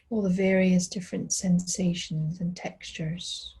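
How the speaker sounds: unhurried body-scan guidance with long pauses; calm, spacious mindfulness voice; guided meditation. Real, not acted. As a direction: guide them gently through the body, leaving space after each phrase.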